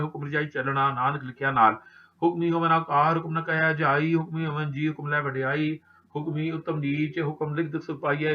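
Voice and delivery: steady chanted recitation of Gurbani; scripture recitation. Acted. Granthi reciting Gurbani to the sangat, steady devotional recitation. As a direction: recite each verse with devotion, measured. Recites Japji Sahib verses.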